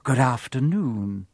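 slow, silky Snape greeting; oil it out smoothly. Acted. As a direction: Snape silkily greeting the children. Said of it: "he said smoothly".

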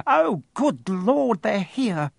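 flustered at the doorbell; frantic. A narrator's reading. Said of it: "said Aunt Petunia frantically".

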